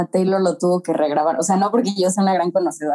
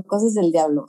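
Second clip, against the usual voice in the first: talking through a yawn; 3 semitones lower than usual. Real, not acted. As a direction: say it mid-yawn. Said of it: "me dio el bostezo".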